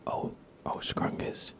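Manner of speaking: a hushed call to the pet; whispered pet name. Real, not acted. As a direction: breathe the nickname softly. Streamer whispers pet nickname.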